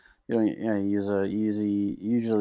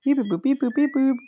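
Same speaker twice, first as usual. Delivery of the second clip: high chirpy droid beeps. Pretend. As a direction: beep like a little robot. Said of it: "You got that, R two?".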